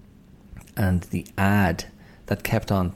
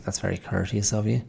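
a mild hint of retold sarcasm; lightly mock politeness; sarcastic. To the manager refusing a refund, mildly sarcastic. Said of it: "I gave him a sarcastic".

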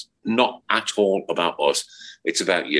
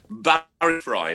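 drawn-out announcer call of the name; slow grand intro of Barry Fry; announcer build-up; 9 semitones higher, much slower than usual. Acted. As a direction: announce him like a ring MC. Announcing the big guest.

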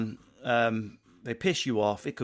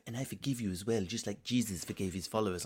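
mock saintly forgiveness; 3 semitones lower, 6 dB quieter than usual. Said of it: "the whole kind of".

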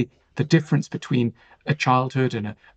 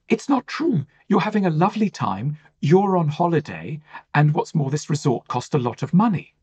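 mock cheerful parent, pitched up, brushing it off; kindly parent; 3 semitones higher than usual. Parent kindly dismissing a child on holiday, lightly voiced. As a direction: imitate a kind parent smoothing over. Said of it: "very well-meaning, very kindly".

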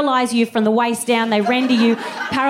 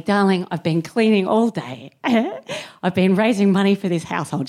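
hammed-up weary mum; 4 semitones lower than usual. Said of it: "didn't lay it on this thick".

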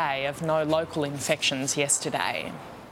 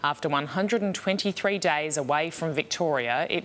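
tabloid tv host. Acted. Anchor opens bulletin.

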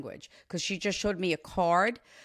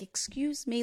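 polite; 4 semitones higher, 5 dB quieter than usual. Retold or imitated. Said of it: "she's so polite".

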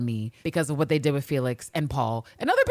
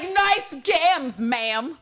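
mock admiring; 11 semitones higher, 3 dB louder, much slower than usual. Voices Villanelle admiring legs.

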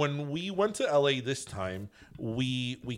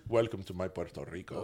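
impression of a singer; 6 semitones lower, 6 dB quieter than usual. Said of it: "When the singer was in his initial heyday".

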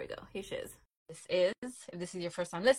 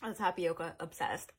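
chewing while talking. Real, not acted. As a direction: mouth full of tapioca. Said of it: "So excuse the chewing".

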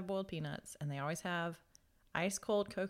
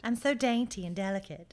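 voicing the dog; 4 dB louder than usual. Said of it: "voicing the dog".

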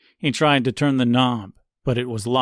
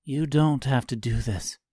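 gentle; 3 dB quieter than usual. Acted. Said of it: "said Tip gently".

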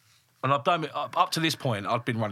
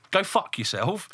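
retold angry dismissal, pitched up; raging; 6 semitones higher than usual. Boss ending a phone row with worker, raging. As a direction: shut the caller down with indignant force. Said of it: "Like, I was raging".

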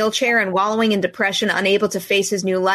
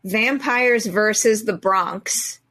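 dramatic title announcement; much slower than usual. Acted.

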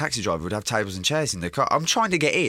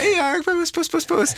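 put-on much higher, cooing baby voice calling puss; baby talk to a cat; slower than usual. Drunk man calling a neighbour's cat, high cooing baby talk. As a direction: coax the cat like talking to a baby. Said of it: "like a baby to a cat".

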